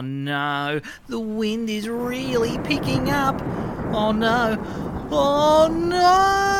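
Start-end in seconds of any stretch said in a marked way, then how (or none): 3.9-6.5 rising louder cry; panic. Acted. Girl swept up by the cyclone, panicked cry. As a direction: cry out as the wind takes you.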